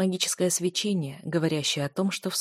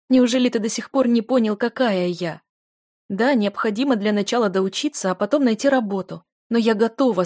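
higher, louder impassioned speech; passionate outpouring; 4 semitones higher, 6 dB louder than usual. Acted. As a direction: pour it all out. Heroine passionately confesses.

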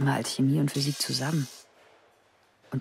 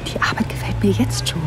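thrilled; 4 semitones higher, 9 dB louder than usual. Acted. Thrilled narration continues.

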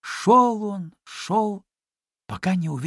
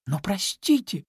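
mild surprise; 5 semitones higher than usual. Acted. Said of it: "попытался вмешаться Чуня".

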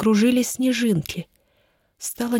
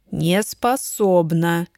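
stubborn repeat; 3 semitones lower, much slower than usual. Acted. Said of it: "упрямо повторил он".

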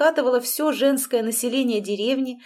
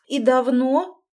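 a shocked mother squeezing out the words; louder, barely getting it out; forced out; 4 semitones higher, 6 dB louder, slower than usual. A narrator's reading. Мать выдавливает вопрос сыну, потрясённо. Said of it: "выдавила она из себя".

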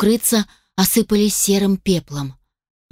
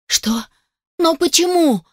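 higher, breaking outburst of tears; sobbing cry; 9 semitones higher than usual. A narrator's reading. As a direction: cry out helplessly through sobs. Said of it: "зашлась я в неконтролируемом плаче". (сквозь рыдания, срываясь на плач)

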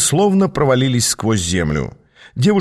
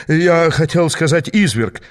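hasty correction; 5 semitones higher than usual. A narrator's reading. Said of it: "поспешно поправился вожак".

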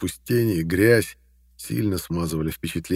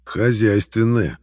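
smirking drawl; 3 semitones higher, 4 dB louder, slower than usual. Acted. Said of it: "растянул в усмешке рот".

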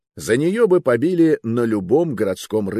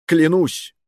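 high, loud pleading cry; desperate oath; 9 semitones higher, 5 dB louder than usual. Acted. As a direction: swear it desperately. Frightened youth swears.

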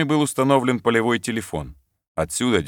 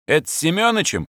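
high, keen question about a friend; eager question; 9 semitones higher than usual. Acted. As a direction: ask it with eager delight. Sergeant asking eagerly. (радостный вопрос)

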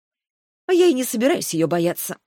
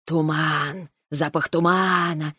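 thoughtful snake; 2 semitones lower, slower than usual. Acted. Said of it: "сказала Шаньга задумчиво".

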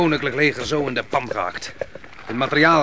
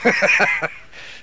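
scornful laugh; 8 semitones higher than usual. Acted.

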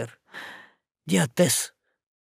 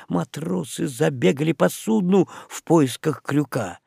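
ordinary delivery, nothing marked

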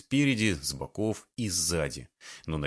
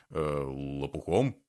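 low, slow, unsure answer; hesitant man; 5 semitones lower, slower than usual. A narrator's reading. Man answers the woman's question, slow and unsure. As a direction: drag it out, uncertain.

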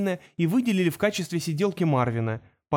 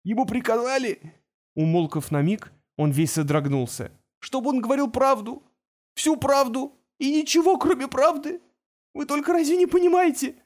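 from tearful to a shrill high wail; sobbing journalist spirals upward into panic; rising hysteria; 7 semitones higher than usual. A narrator's reading. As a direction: voice climbing higher and higher in panic. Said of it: "прошептал он сквозь рыдание".

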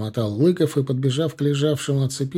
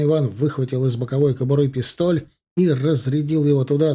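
plain reading voice

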